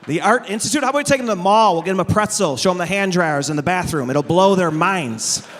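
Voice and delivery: incredulous mockery. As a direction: scoff at the idea, then deadpan the punchline. Mocking reply to wife's plan.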